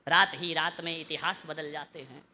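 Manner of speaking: low, soft couplet line; hushed recitation. Real, not acted. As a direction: recite it with the voice held down. Second line low, later repeated loud.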